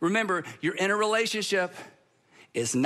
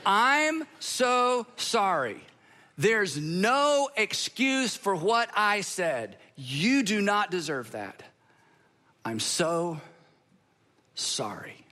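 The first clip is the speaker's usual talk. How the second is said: slow apology, fading to a whisper; a slow full apology that sinks into a whisper; slow sincere apology; much slower than usual. Shown as a demonstration. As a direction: own it slowly and let it die away. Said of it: "rinse and repeat".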